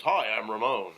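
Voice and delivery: put-on standard American accent, announced loudly; Ramon. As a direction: imitate someone who lost their foreign accent. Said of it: "start talking like this".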